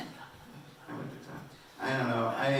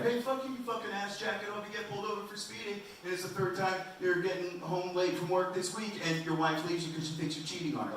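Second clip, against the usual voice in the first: road-rage rant; 7 semitones higher, 4 dB quieter than usual. Retold or imitated. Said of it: "I'll just be like".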